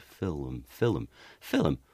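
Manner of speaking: "film" said as "fil-um"; two-syllable film. Shown as a demonstration. Showing Elizabethan "film" as two syllables, "fil-um". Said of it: "It's a two-syllable word".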